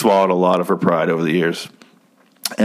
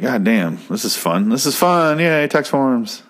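sarcastic; 3 semitones higher than usual. Retold or imitated. Sarcastic winner filling tax forms.

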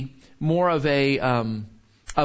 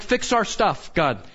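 mock demanding prayer; 4 semitones higher than usual.

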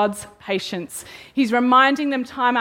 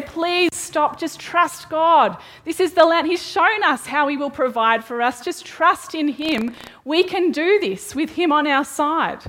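earnest pleading; 5 semitones higher than usual. Retold or imitated. Caleb and Joshua plead with people.

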